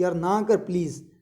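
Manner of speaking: slow, tired plea with a mild growl; exhausted snarl. Shown as a demonstration. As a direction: sound drained and fed up. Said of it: "इस तरीके से बोलते हैं ना कि". (थका हुआ, धीमा गुर्राता स्वर)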